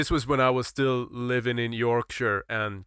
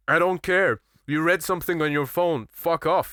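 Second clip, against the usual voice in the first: louder, higher blunt brush-off; loud dismissive retort; 5 semitones higher, 4 dB louder than usual. Retold or imitated. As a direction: snap it back at her. Retelling his blunt retort.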